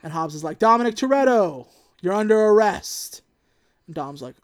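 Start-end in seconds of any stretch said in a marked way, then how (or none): 0.6-3.2 loud, stern cop delivery; loud mock police arrest; mock arrest announcement. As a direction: bark it like an arresting officer. Hobbs arresting Dom, acted.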